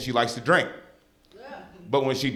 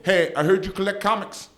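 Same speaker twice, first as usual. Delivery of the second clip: much higher sing-song mom greeting; friendly mom; 7 semitones higher than usual. Retold or imitated. Mom greeting the show host on the phone, high and sweet. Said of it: "She says".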